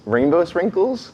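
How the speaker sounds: high, slow disbelieving question; incredulous. Real, not acted. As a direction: draw it out in disbelief. Incredulous question about sprinkles.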